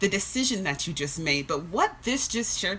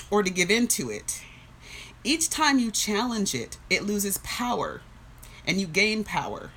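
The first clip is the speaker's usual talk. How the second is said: measured, steady read of a book passage; reading aloud. Acted. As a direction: read it like sharing something that moved you. Reads the book paragraph aloud.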